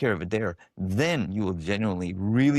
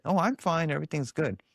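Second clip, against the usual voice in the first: fake fine; 6 semitones higher than usual. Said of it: "like you said".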